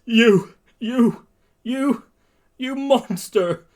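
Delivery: high, halting, anguished cry; tearful accusation. Acted. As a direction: stammer upward in tearful horror. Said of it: "with tears in his eyes".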